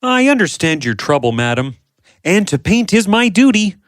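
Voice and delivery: an earnest, humble worker; honest painter Vincent. Acted. Vincent speaks to madam.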